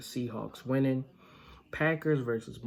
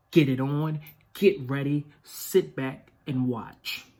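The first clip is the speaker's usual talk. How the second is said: loud; 5 dB louder than usual. Real, not acted. Rallying fans to put jerseys on.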